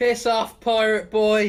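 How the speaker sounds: screamed, dismissive brush-off tone. Playing a drunk tavern patron who tells off a pirate: screaming. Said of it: "You don't want people screaming pirate at you?".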